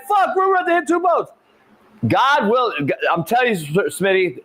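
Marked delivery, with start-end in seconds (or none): 0.1-1.3 alarmed yell. Retold or imitated. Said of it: "I'm like".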